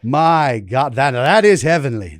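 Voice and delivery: half-hearted impression of a gushing interviewer; lightly hammed-up, reverent talk-show host; James Lipton. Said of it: "this half-assed James Lipton impression".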